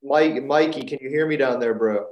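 loud call to someone far off; calling down a hallway. Real, not acted. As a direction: call out so he hears you.

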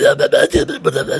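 voiceless, whispered babble mocking how he talks; imitating the guy. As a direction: mimic the tweaker's airy mumble. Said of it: "He talks like this".

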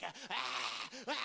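hyperventilating dog gasps; imitated hyperventilating dog. Storyteller imitating dog fallen on its back, hyperventilating. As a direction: gasp like a dog possessed. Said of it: "he was hyperventilating".

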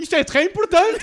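high, loud hammed French accent. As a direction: play an excited French soldier. Continues French act.

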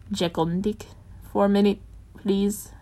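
tight, clipped near-whisper. Acted. Bruce tightly sending Jason and Dick away. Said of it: "Bruce said tightly".

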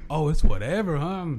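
a hint of an LA tough guy. Retold threat in light LA tough style. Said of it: "I feel like I'm from L A".

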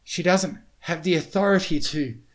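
high, loud, winded objection; huffing protest. A narrator's reading. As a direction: push the protest out breathlessly. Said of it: "he huffed".

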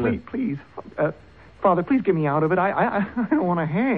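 stammering desperate begging with a nervous laugh; desperate pleading. Acted. Son begging father to get him out, stammering. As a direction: plead for your life.

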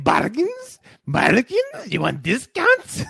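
imitating a street seller hawking bargains; mock hawker pitch; street hawker call. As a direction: call out like a pushy street vendor.

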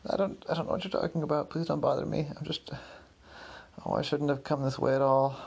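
upset. Acted. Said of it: "I can tell you're upset".

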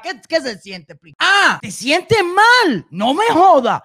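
drawn-out mocking "Ah, te sientes mal", very slow; sarcastic taunt. Real, not acted. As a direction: stretch it out like a sneer at her. Taunting the pro-government woman.

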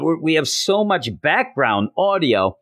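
high mock yell of a frantic producer. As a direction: yell it up high, half joking. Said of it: "he's yelling".

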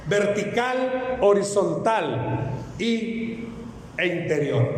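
slow, stretched vertical; drawn-out demo. Shown as a demonstration. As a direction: draw the word out for the congregation to copy. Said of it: "Haga conmigo esto".

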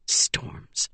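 breathless whispered oath; whispered curse. Acted. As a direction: swear under the breath in shock.

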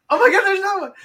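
high yelped exclamation; mock shock. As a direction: yelp it, shocked and loud. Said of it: "it's like".

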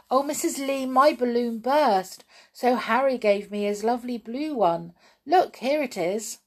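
put-on eager little girl calling across the room; calling out loudly. Little Janey calls out to Missus Lee, loudly. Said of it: "little Janey called out loudly".

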